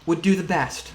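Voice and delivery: lightly voiced deliberate matriarch, pausing between phrases; a hint of a polite, ominous mother figure; Mum, formally cautioning. Game master plays Mum advising.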